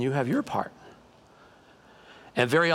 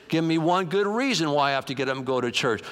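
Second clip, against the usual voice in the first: reluctant husband. Acted. Husband demands a reason from wife, reluctant protest. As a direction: push back like a reluctant churchgoer. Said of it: "He said".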